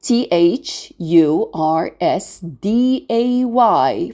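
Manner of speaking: T H U R S D A Y, slowly, letter by letter; T, H, U, R, S, D, A, Y as separate letter names; spelled letter by letter. Shown as a demonstration. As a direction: spell out T H U R S D A Y for learners. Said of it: "So the S sound here".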